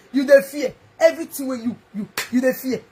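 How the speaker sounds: laughing taunt; mocking laugh. Real, not acted. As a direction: laugh at him while you say it. Mocking Peter Ituna's fear.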